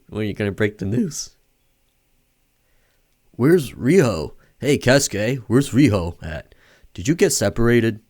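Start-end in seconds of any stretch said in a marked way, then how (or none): 3.4-8.0 slightly raised, insistent character voice; urgent questioning. Acted. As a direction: press them urgently for an answer. Character urgently asks after missing girl.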